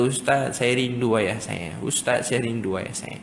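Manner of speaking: slow, low, understated longing; retold tearful confession. Boy confessing to the preacher that he misses his father, understated sadness. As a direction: confess it slowly, with a touch of sorrow.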